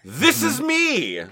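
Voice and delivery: put-on high, slow girly voice; lady voice. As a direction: play a prissy lady. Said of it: "they will say in their lady voice".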